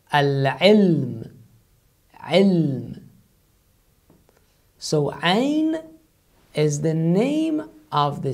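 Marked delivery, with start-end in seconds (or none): 0.1-3.0 "al-ilm, ilm" with a squeezed throaty ain; Arabic ain. Shown as a demonstration. Teacher gives an Arabic word with ain. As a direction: start "ilm" from a tight throat. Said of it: "what you say in Arabic".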